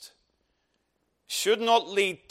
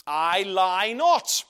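slow emphatic reading; 3 semitones lower, much slower than usual. Shown as a demonstration. Verse read very slowly.

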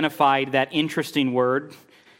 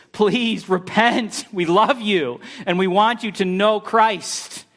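slow, earnest pleading; slow heartfelt appeal to repent; gentle plea; 6 semitones higher, slower than usual. Shown as a demonstration. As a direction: plead with them tenderly, slowly. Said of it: "gospel as plea".

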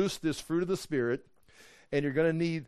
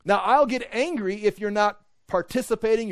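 ordinary talk, nothing marked

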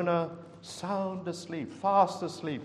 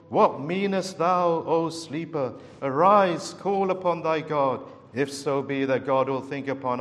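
louder, stern King James rebuke; sharp rebuke; 6 dB louder than usual. Retold or imitated. Ship's captain to sleeping Jonah, sharp stern rebuke. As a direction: wake him with a sharp scolding call. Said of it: "sharp rebuke that he awoke".

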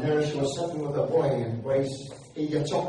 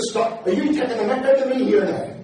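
laughing disbelief; 5 semitones higher, 3 dB louder than usual. Retold or imitated. Phoning a friend in disbelief.

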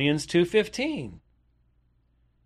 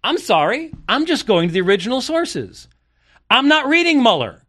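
frustrated; 8 semitones higher, 4 dB louder than usual. Real, not acted. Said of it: "getting a little frustrated with".

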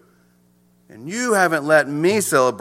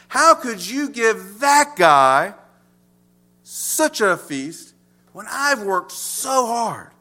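grumbling; 3 semitones higher, much slower than usual. Retold or imitated. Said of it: "The older son is grumbling".

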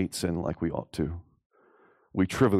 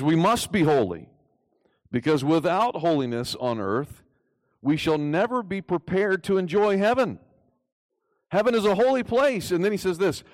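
high, louder fervent quote; impassioned reading; 9 semitones higher, 4 dB louder than usual. Acted. Preacher reading Ryle's warning to the congregation, impassioned and high. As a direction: proclaim it like a revival preacher. Preacher quoting Ryle with fervor.

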